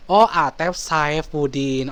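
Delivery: Oh stretched very slowly; slow drawn-out recognition. Shown as a demonstration. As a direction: draw out the Oh, slowly realising. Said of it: "Atef mana?". ("Oh" panjang dan pelan)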